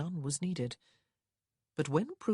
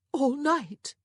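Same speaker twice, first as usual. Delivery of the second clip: high, louder whimpered question; whimpering; 10 semitones higher, 7 dB louder than usual. A narrator's reading. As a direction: whimper it in shocked disbelief. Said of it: "her sister whimpered".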